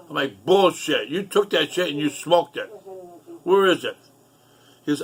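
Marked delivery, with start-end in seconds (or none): 0.4-4.0 retold outburst, higher and punchy; angry accusation. Calling out brother's lie about the dope, retold anger. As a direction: throw the accusation back, pitched up.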